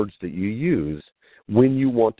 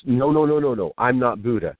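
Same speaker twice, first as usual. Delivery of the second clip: mildly horrified protest, higher at the start; horrified denial; 3 semitones higher than usual. Retold or imitated. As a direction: act out a monk hastily disowning the idea. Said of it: "he was horrified".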